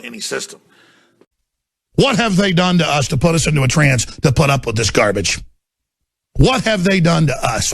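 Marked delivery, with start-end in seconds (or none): 2.0-5.4 loud, furious question hurled at the audience; angry shout. Real, not acted. Ranting at the audience. 6.4-7.7 the same question shouted again, just as loud; angry shout. Real, not acted. Repeats the question, ranting.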